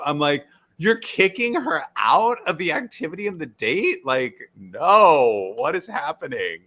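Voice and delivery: high, loud disbelief; incredulous. Real, not acted. Friend recapping the show, outraged at Michelle's exclusion.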